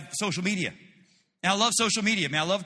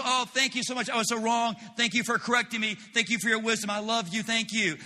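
mock grateful; 4 semitones higher than usual. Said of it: "And you say".

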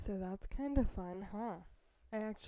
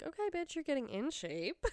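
higher-pitched, playful cheer to herself; self hype-up; 6 semitones higher than usual. Retold or imitated. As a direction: cheer yourself on, half joking. Hyping herself up, quoted.

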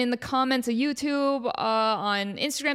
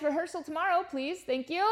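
trailing quiet aside; 7 semitones higher, 6 dB quieter than usual. Real, not acted. Trailing joke to the Kevins.

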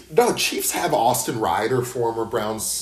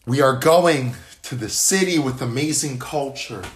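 mock TV host announcement, slightly higher; Chris Harrison; 4 semitones higher, 4 dB louder than usual. Co-host retells the Bachelor host's reveal, mock announcement. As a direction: lightly imitate a show host. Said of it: "Chris Harrison, the host of the show".

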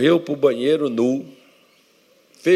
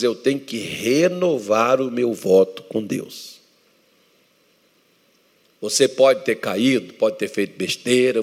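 emphatic preaching. Acted.

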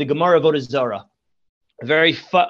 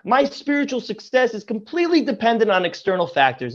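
much higher, whiny mock excuse-making; hammed-up helpless whine, raised pitch; 4 semitones higher than usual. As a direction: parody someone blaming circumstances. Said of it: "He thinks".

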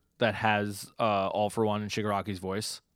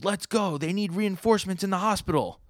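voicing Locke; 11 semitones higher, 4 dB louder than usual. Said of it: "And then Locke goes".

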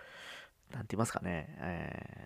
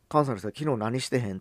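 soft Kansai dialect; 4 semitones higher, 4 dB louder than usual. Retold or imitated. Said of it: "確かに柔らかいっちゃ柔らかい".

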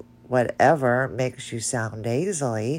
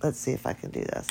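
whispered aside; 6 dB quieter, much faster than usual. Real, not acted. Muttering while trying a trick.

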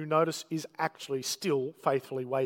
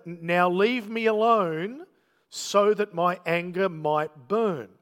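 slow, louder voice of God; slow divine command; 4 dB louder, slower than usual. Retold or imitated. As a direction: drag out each word of the warning, a bit louder.

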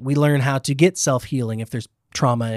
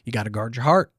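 lightly put-on Southern church accent; Southern Christian accent; 3 semitones lower, 4 dB quieter than usual. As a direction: imitate a Southern churchgoer giving advice. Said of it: "my Christian accent is Southern".

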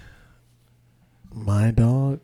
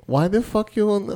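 put-on higher, louder stab at a Latina accent; 10 semitones higher, 5 dB louder than usual. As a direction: start a hesitant mock Latina accent. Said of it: "a Latina accent".

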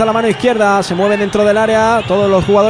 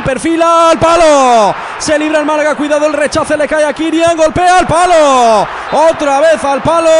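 excited commentary; 4 semitones higher than usual. Real, not acted. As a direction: cry out the near miss. Shot hits the post twice.

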